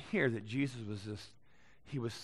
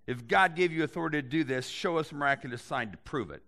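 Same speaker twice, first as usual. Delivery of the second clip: mild demanding; 3 semitones higher, 3 dB louder than usual. Retold or imitated. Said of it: "they demanded".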